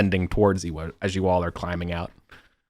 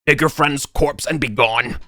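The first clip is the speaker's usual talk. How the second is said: slow, higher-pitched talking baboon; 6 semitones higher than usual. Acted. Baboon orders intruders out with corpse, slow creature voice. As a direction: dismiss them slowly as a talking baboon. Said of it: "what you hear instead is that mustache baboon".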